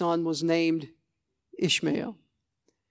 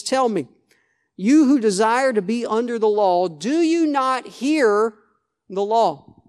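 sarcastic; 2 semitones higher, 4 dB louder, slower than usual. Retold or imitated. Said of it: "There's a little bit of sarcasm".

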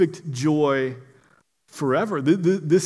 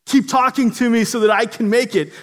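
higher-pitched, mildly pleading; begging; 5 semitones higher than usual. Acted. Trapped person crawling toward the rescuer's voice, begging. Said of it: "you're begging the voice".

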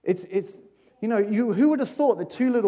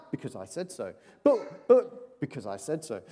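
stern parent. Retold or imitated. Child and parent exchange.

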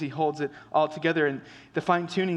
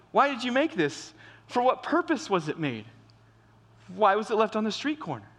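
questioning the creator; 4 semitones higher than usual. Retold or imitated. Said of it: "And they would say".

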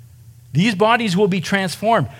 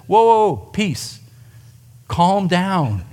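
calming the crowd; slower than usual. Pretend. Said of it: "And Jesus says".

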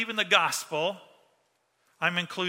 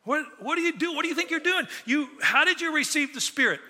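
higher, incredulous scolding; exasperated scolding; 8 semitones higher than usual. Retold or imitated. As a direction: play Paul as a fed-up teacher catching the Galatians. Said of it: "modern rendition of".

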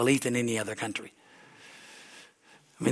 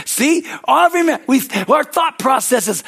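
laughing; 9 semitones higher, 7 dB louder than usual. Real, not acted. Preacher laughing through words.

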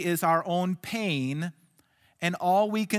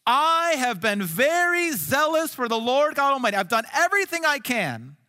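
higher and louder desperate complaint; crying out; 5 semitones higher, 4 dB louder than usual. Acted. Elijah crying out his despair to God, raised and pleading. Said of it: "And God just lets him cry out".

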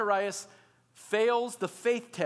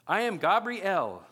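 indignant angel; 4 dB louder, slower than usual. Acted. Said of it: "how annoyed the angel is".

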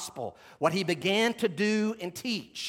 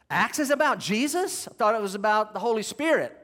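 puzzled surprise; 3 semitones higher than usual. Acted. Preacher voices the congregation's confusion, mock puzzled surprise. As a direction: act out a listener doing a mild double-take. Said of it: "here's what you should be feeling".

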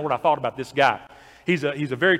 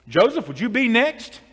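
a hint of a higher inviting pastor; lightly voiced pastor; 8 semitones higher, 5 dB louder than usual. Pastor inviting the old farmer forward, lightly voiced. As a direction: call out to the farmer kindly.

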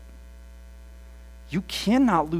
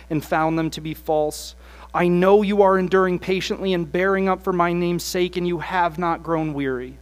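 scripture read with force; 6 dB louder than usual. Acted. Jesus's words read aloud.

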